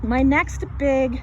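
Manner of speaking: slow, breathless start; winded. Real, not acted. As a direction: run out of air mid-phrase. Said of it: "I'm winded".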